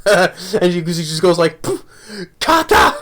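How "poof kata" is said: high, playful karate yell; mock battle cry. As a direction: shout it like a kid doing karate. Retold kid's battle cry.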